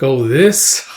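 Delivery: breathy whisper; whispered reply. Retold or imitated. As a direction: let it slip out secretly under the breath. Griffith showing the necklace.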